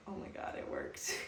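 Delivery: breathless whisper of disbelief; awed whisper. Retold or imitated. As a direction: whisper it like you can't believe it worked. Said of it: "I'm like".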